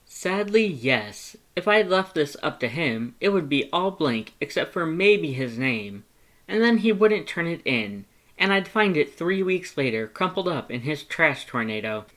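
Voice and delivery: high, loud, theatrical complaining; a put-upon brother's rant; exasperated Papyrus. Acted. Papyrus complains about Sans.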